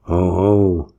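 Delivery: hearty triumphant laugh. A narrator's reading. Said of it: "laughed the schoolmaster".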